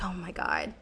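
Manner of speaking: faint, breathy, deflated sigh of words; defeated groan. Retold or imitated. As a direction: let it out all the air gone.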